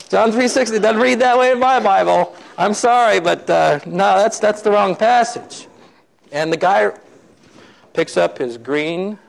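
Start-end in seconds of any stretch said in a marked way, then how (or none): 0.1-5.7 high, indignant protest; acted-out riled correction; fired up. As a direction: object hotly with raised pitch. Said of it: "Jeffy's fired up now".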